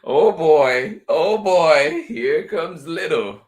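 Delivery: high, loud burst of glee, easing at the end; thrilled storybook dog; excited dog. A narrator's reading. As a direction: greet your best friend eagerly. Dog narrator greets arriving friend.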